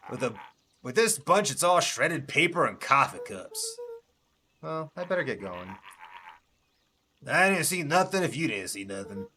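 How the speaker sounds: put-on loud, grumbling old junker; gruff junkman voice. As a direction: bark it like a cranky old scavenger. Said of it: "give each character unique voices".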